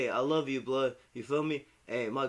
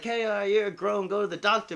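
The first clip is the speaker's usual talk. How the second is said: mom nagging; 9 semitones higher, 8 dB louder than usual. Retold or imitated. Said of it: "she be like".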